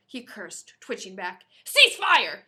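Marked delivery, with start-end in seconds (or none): 1.6-2.4 loud, sharp command; barked order. Acted. Captain barking at his men to stop shooting, loud. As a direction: bark it at your men. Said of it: "he barked at his men".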